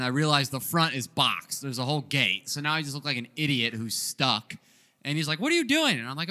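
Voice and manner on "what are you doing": high, imitated confrontational holler; retold yell. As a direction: call him out like an irate owner. Retold store owner confronting him again.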